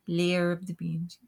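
put-on quick, half-hearted Scottish accent; bad Scottish accent. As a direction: try a Scottish accent and botch it. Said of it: "insert shitty Scottish accent".

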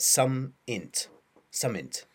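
something clipped to some int; Yorkshire something. Retold or imitated. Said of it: "when I heard you say the word something".

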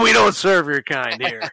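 laughing through the mock put-down; half-laughing repeat of the joke line; snooty waiter. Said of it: "just fucking with you".

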